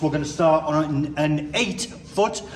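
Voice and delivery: speaking with numb cold lips. Real, not acted. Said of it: "my lips are numb".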